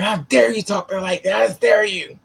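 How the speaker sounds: high-pitched imitation of an outraged scolding; mock indignation. Retelling the boss defending her to a coworker, mock outrage.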